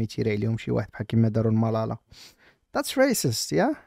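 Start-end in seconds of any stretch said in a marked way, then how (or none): 2.8-3.8 high squeaky mock of That's racist; mocking the officer. Mocking the cop's accusation for viewers, squeaky. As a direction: parody the scold.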